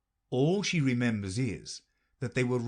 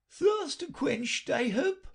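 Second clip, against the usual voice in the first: very high brisk queen; matter-of-fact and a little impatient; slower than usual. A narrator's reading. Queen answers Alice, very high and brisk.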